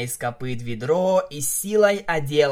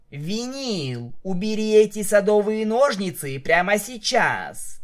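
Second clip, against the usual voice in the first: higher-pitched exasperated command; scolding order; 7 semitones higher, 4 dB louder than usual. A narrator's reading. Narrator mare orders shears away, scolding. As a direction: tell a friend off firmly.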